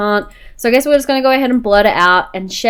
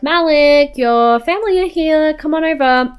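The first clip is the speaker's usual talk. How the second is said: calling out; 7 semitones higher than usual. Acted. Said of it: "And we're like".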